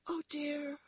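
high little rabbit lament; dismayed toy rabbit. A narrator's reading. Toy rabbit left alone thinks aloud, high and dismayed. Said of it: "he thought".

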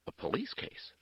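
high, sharp-edged question; changed, sharp voice. A narrator's reading. Nun learns the police are involved, sharply questioning. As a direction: ring of sudden alertness, pitched well up. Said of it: "Her voice had changed".

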